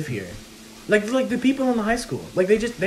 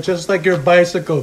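cartoon impression; 5 dB louder than usual. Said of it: "That's terrible".

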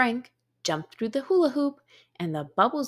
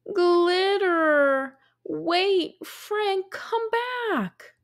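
rising, higher panicked call to the dog; alarmed call; 8 semitones higher, much slower than usual. A narrator's reading. Dog knocks over glitter.

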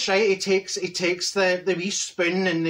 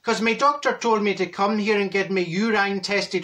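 relieved stage Irishman, big opening "Oh"; hammed-up relief in an Irish accent; 2 semitones higher than usual. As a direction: deliver the punchline in mock Irish. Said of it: "He's Irish".

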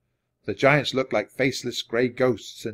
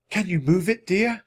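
higher, tender question; pitched-up nurse checking an injury; Florence's voice; 7 semitones higher than usual. A narrator's reading. Florence examines Jack's arm.

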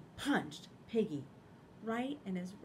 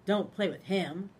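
loud Ducky warning; 8 dB louder than usual. Acted. Ducky warns others.

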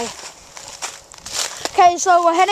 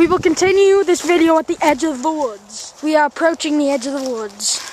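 put-on British accent. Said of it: "understanding my British accent".

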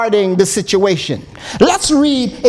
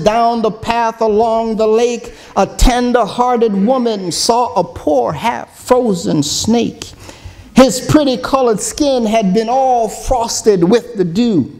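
dramatic song recitation. Acted. Preacher reciting the snake song to his congregation, dramatic storytelling. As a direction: recite the verses like a storyteller from the pulpit.

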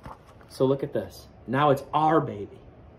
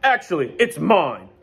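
light goose honk; 5 semitones higher, 6 dB louder than usual. Acted. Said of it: "honked Goose".

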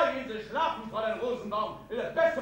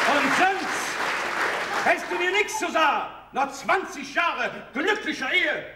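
louder, indignant reproach, slowing on the last words; hurt shouting; 3 semitones higher, 5 dB louder than usual. Acted. Husband shouting reproach at his wife across the room. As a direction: shout out twenty years of marriage. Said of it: "was schreist du hier rum?".

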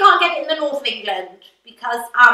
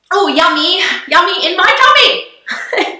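gushing sing-song; 4 semitones higher, 5 dB louder than usual. Acted. Gushing over food.

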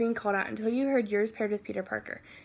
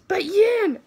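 pleading protest; 8 semitones higher, 9 dB louder than usual. Acted. Peter's protest in story.

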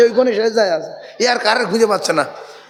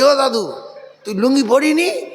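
higher, mock-innocent grandchild query; grandson's question; 4 semitones higher than usual. Grandson asking grandpa about his lungi, higher-pitched asking. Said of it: "নাতি বলছে".

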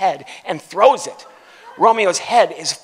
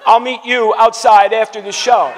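put-on louder, higher drunk threat; retold yell; 4 semitones higher, 7 dB louder than usual. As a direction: bark the drunk's challenge. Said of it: "He was yelling at him".

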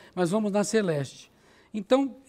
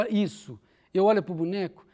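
usual speaking voice

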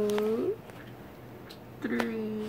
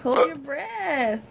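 slow instruction; much slower than usual. Shown as a demonstration. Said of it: "Go like".

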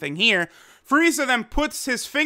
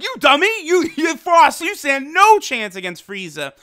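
higher, scoffing cat-god voice with a laugh; mocking Champa; 6 semitones higher than usual. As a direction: belittle him from up high. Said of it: "Champa's like".

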